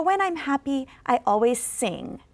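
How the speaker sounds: slow, falling on "sing"; slow model, down finish; slow falling intonation. Shown as a demonstration. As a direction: drop down on "sing". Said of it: "make your voice go down".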